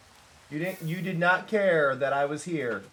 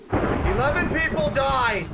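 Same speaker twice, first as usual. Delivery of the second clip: high, loud, drawn-out exclamation; raised-voice proclamation, stretched out; loud outcry; 8 semitones higher, 5 dB louder, slower than usual. Acted. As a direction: cry it out slowly, high and loud. Sudden outburst during game.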